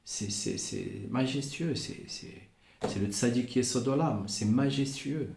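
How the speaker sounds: softly awed, almost breathless; awed hush. Real, not acted. Awed hushed reverence. (murmure ému, plein de respect)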